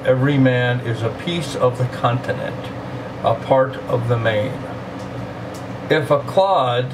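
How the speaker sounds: slow, measured poetry recital; poem reading. Acted. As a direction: read it slowly, letting each line land. Reads the Donne poem aloud.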